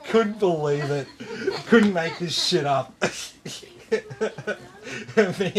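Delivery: laughing. Real, not acted. Still laughing at the story.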